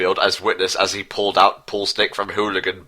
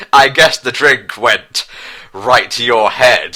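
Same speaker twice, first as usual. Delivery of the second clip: joking; 4 dB louder than usual. Acted. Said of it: "Garfield joked with hilarity".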